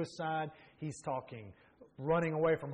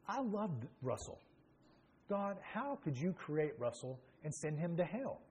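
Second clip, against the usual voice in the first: angry at God; 3 semitones higher, 4 dB quieter, slower than usual. Retold or imitated. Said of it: "very angry with God and thinking".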